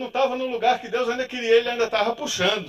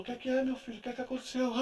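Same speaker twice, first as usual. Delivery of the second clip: gentle concern; 3 semitones higher, 8 dB quieter, faster than usual. Retold or imitated. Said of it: "A mulher olhou pra mim e falou".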